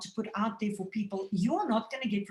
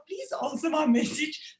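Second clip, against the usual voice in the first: pleading request; 7 semitones higher than usual. Retold or imitated. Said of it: "they go like".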